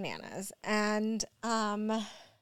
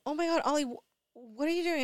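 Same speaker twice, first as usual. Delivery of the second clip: higher, louder, alarmed; retold panic; 6 semitones higher, 3 dB louder than usual. Mom retelling scolding her son over the pills, mild retold panic. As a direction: replay a parent's sudden alarm. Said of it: "I was, like, freaking out".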